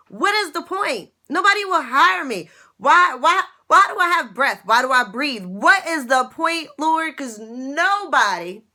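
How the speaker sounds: crying out to God in despair, reliving it; desperate prayer. Retold or imitated. To God, why am I even here, retold desperate plea. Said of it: "I used to say".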